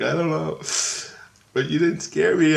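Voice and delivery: put-on high-pitched child's reply; imitated little girl. Daughter answers puzzled father, high imitated child.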